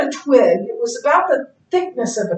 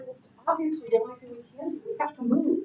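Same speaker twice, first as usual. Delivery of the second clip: deadpan reply; 13 dB quieter, much faster than usual. Retold or imitated. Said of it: "And I said".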